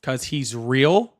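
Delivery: slow, drawn-out disbelieving question; incredulous echo. Real, not acted. Host repeats caller's reason for backing Trump, slow and incredulous. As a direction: repeat his words back as if you can't believe them.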